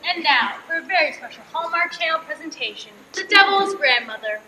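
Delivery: TV announcer. Acted. Announcing the sketch.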